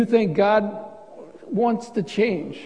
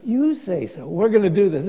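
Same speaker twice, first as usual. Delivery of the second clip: sweet sarcasm. Shown as a demonstration. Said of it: "you gotta say it really with a really sweet tone".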